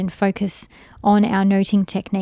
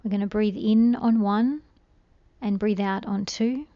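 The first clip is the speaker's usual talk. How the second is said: soft, calm meditation voice with long pauses; unhurried, hushed guidance through breathing; guided meditation; 4 dB quieter than usual. Real, not acted. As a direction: gently guide a listener into stillness, letting phrases trail softly.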